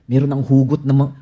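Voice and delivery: ordinary delivery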